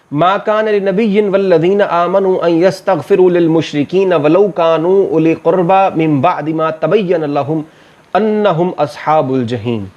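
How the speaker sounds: slow, measured Arabic recitation with long-held vowels; Quran recitation. Acted. Teacher recites a verse before translating it, measured recitation. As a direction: recite the verse slowly, drawing out the long syllables.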